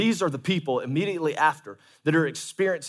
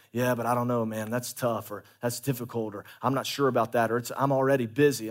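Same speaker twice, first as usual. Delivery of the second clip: low, softer reluctant excuses; mock pushback voices; 4 semitones lower, 4 dB quieter than usual. Pastor imitating hesitant members, muttering excuses. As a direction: mumble the excuses half-heartedly. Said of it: "The people that are gonna say".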